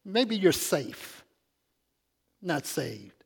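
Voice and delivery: a sly high hum, then a slow, dry verdict; skeptical aside. Retold or imitated. Preacher mocking his own doubt about the flock. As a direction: tease them with a knowing doubt. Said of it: "But I'm kinda like".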